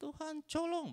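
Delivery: mock sobbing, very high, wailing, desperate, slurred "tolong".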